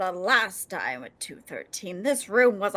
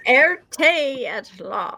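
laughing; 5 semitones higher, 4 dB louder, much slower than usual. Acted. Mocking the misheard word.

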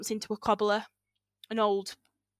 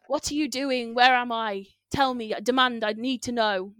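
shouting; 3 semitones higher, 4 dB louder than usual. Retold or imitated. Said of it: "shouting at the old man".

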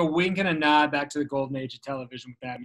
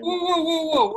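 surprised whoa; 14 semitones higher, 5 dB louder, slower than usual. Real, not acted. Reacting to outro being played.

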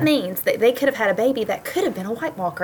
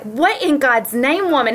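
slow, high mock outrage; shocked husband; 6 semitones higher, slower than usual. Husband Rod reacting to the Red Wedding, mock shocked. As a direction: imitate a stunned husband, drawn out.

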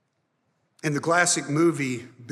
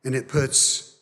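closing prayer; 2 semitones lower than usual. Acted. Pastor leading the church in prayer, hushed.

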